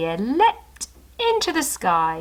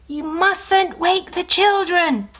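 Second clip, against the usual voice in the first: much higher, slow warning; dog's voice; 10 semitones higher, slower than usual. Acted. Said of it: "whispered the family's dog".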